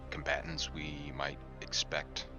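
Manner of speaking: normal talking voice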